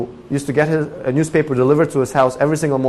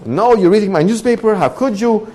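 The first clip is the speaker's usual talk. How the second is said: indignant reproach; 7 semitones higher than usual. Retold or imitated. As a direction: scold the neighbor. Quarrel with neighbor.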